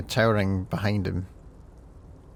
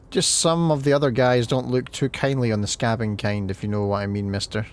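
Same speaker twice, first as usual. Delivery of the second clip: put-on Scottish accent. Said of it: "that's a very Scottish accent".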